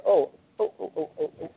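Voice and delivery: hammed-up alarm; mock panicked ohs. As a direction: squeak out scared ohs. Mock panic at phone number.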